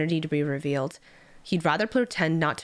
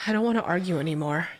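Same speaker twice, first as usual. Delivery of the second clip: whispered, tired resignation; weary whisper; faster than usual. Acted. Aged master giving up on the argument, whispered. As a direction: let it fade to a whisper.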